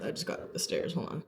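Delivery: panting, trying to recover; out of breath. Real, not acted. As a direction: speak between gasps after climbing. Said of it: "I'm a little out of breath".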